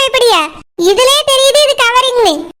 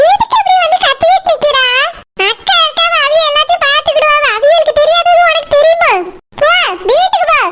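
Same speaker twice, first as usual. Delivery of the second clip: angry scolding; 3 semitones higher than usual. Acted. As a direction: snap at her to shut up and go home. Scolding Saroja, sending her home. (கோபமாக உயர்ந்த குரலில் திட்டுதல்)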